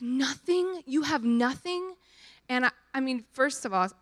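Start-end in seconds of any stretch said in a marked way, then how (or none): 0.0-1.9 incredulous quote. Retold or imitated. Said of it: "she was like".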